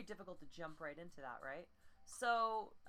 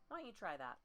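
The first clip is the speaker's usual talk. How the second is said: normal talking voice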